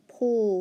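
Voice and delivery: "Pull" repeated alone as the end of staple; final-syllable sound. Shown as a demonstration. Teacher repeating a sound for pupils, isolated syllable. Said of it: "what about the pull sound".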